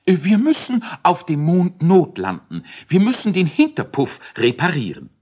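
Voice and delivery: high, loud scientist calling out; urgent scientist call. Acted. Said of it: "rief Elisius schließlich".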